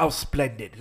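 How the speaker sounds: mock British sarcasm, lightly imitated; sarcastic. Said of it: "a few times sarcastically".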